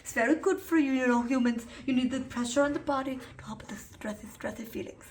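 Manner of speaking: lightly voiced cute dog. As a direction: speak as the little dog, sweetly. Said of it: "He says".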